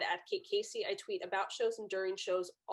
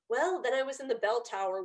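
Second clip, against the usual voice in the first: a light, mocking take on a put-on Irish accent; fake Irish accent. Father bragging about the bell tower in a fake Irish accent. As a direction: lightly imitate a phony Irish brogue. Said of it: "his fake accent".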